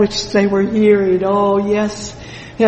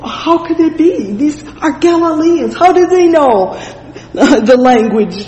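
higher-pitched, mildly acted astonishment; amazed questioning; 7 semitones higher, 4 dB louder than usual. Preacher voicing onlookers puzzled by Galileans, amazed questioning. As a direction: wonder aloud as the baffled crowd.

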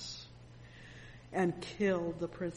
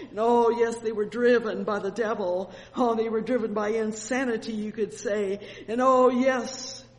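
louder, rising preacher's charge; forceful preaching; 3 semitones higher, 8 dB louder than usual. Acted. Preacher charging the people with their guilt, loud. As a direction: drive it home like a fiery preacher.

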